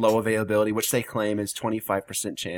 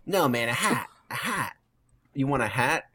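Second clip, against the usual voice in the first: mock Boston exchange; 5 semitones higher than usual. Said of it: "Hat, heart, and hat are the same".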